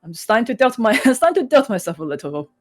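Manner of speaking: a touch of wobbling, near tears; tearful voice. Acted. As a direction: hold back tears lightly. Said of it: "his bottom lip, like, quivering".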